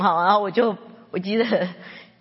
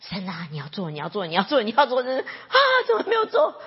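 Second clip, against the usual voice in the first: mock pleading prayer; 4 semitones higher, faster than usual. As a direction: plead harder until it breaks into a mock sob. Mimicking a demanding prayer.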